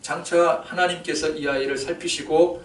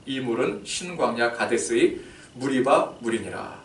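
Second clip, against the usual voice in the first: scripture reading. Acted. Reads scripture.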